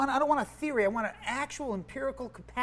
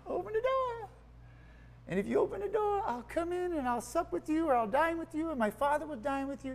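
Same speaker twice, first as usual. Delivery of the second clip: higher, softer, lightly voiced Jesus pleading; a light, higher and softer take on Jesus inviting himself in; gently voicing Jesus; 10 semitones higher, 5 dB quieter than usual. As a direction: coax them as Jesus at the door, softly and high. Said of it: "Jesus is going".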